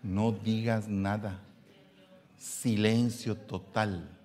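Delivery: soft, slow, gentle "No digas nada"; calm, slow advice. Acted. Preacher gently counseling husbands, slow soft advice. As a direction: say it slowly and softly, calming.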